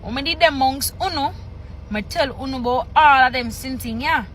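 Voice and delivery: measured read-aloud in Jamaican Patois; scripture reading. Acted. Reader reciting Jesus' words from Patois scripture, measured read-aloud. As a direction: read the verses out phrase by phrase, pausing between.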